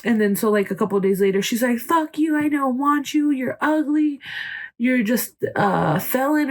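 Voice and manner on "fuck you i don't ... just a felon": higher, mock furious rant on live; mock angry rant. She rants at her ex on TikTok live, mock angry. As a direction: spit it out like a jealous ex. Ex's girlfriend ranting on live.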